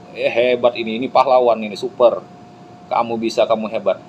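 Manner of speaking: mildly excited crowd praise; kagum penuh bahagia. Acted. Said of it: "kebahagiaan luar biasa meluapkan". (pujian penonton yang agak bersemangat)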